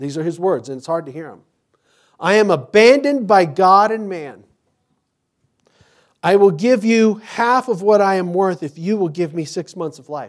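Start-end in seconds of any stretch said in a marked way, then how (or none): 2.2-10.3 very loud, high, desperate crying out. Quoting a man's words to his physician, retelling a desperate loud cry. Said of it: "desperately, loudly, he cried".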